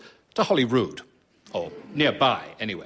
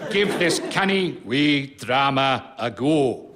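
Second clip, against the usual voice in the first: put-on slow, half-hearted Scottish accent, then gives up; a weak stab at a Scottish reviewer; failed Scottish accent; 2 semitones higher, 3 dB louder, slower than usual. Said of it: "I can't do the accent".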